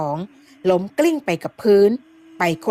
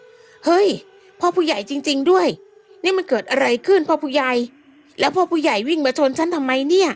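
higher, startled recognition; surprised; 6 semitones higher than usual. Acted. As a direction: blurt out in surprise at finding the headman. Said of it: "ด้วยความแปลกใจ". (พูดด้วยความแปลกใจ)

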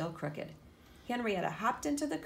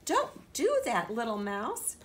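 high, slow pained protest; hurt yelp; 4 semitones higher, 4 dB louder, slower than usual. Acted. Henrietta yelping at the mouse after the yank. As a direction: yelp as if it stung.

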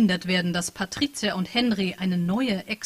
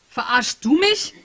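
incredulous question; 5 semitones higher, 6 dB louder, slower than usual. Acted. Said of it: "fragte sie zurück".

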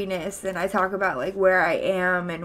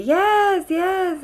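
excited yes; 9 semitones higher than usual. Real, not acted. Excited about buying a house.

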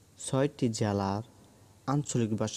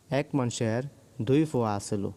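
Sylheti dialect. Shown as a demonstration. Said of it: "সিলেটের আঞ্চলিক ভাষা হলো".

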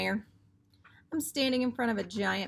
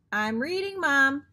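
put-on higher, louder fed-up kid; fed up, push the word Mom out hard; exasperated kid shout; 4 semitones higher, 5 dB louder, slower than usual. A narrator's reading. Boy shouting his refusal at Mom, exasperated.

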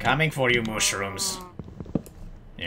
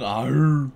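mock cow moo; 4 dB louder than usual. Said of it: "you make those cow sounds".

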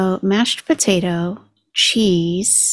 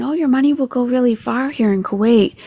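higher-pitched mock quote; mimicking her; 5 semitones higher than usual. Reactor quoting what she heard the woman say, mocking imitation. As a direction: imitate her rosy promise, lightly mocking. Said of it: "I heard her saying".

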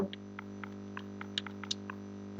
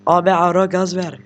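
mock shout, louder; rev it up call; 6 dB louder than usual. Imitating a boy yelling at passing cars, louder. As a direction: call out like a kid egging on a car. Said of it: "Motorcunun biri böyle gazlaya gazlaya".

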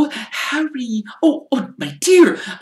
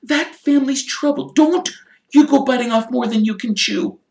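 much higher, louder motherly warning; sharply; 8 dB louder than usual. Acted. Mrs Weasley warning Arthur off the Malfoys, sharp and high. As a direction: scold like a worried wife. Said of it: "said Missus Weasley sharply".

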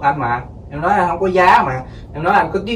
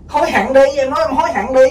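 gloating taunt; 7 semitones higher than usual. Acted. Husband gloating at wife.

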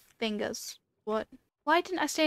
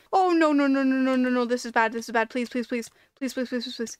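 panicked pleading. Real, not acted. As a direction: gabble the pleas in a real panic. Panicked pleading as danger closes in.

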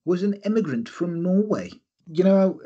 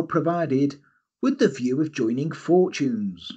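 dramatic advert reading. Acted. Reads old advert aloud.

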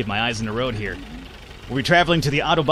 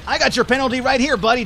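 indignant shout; 11 semitones higher than usual. Real, not acted. Penalized after crash, yelling back.

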